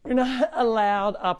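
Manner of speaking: slow, firm telling-off; telling the rooster off for getting on the counter; scolding the rooster. Real, not acted. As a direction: lay down the rule slowly to the rooster. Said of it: "All right, Rooster".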